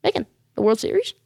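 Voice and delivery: doubting question, rising at the end; mock disbelief. Viewer doubts a World Series run, mock disbelief. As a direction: echo the claim as a sceptical viewer. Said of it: "You're saying".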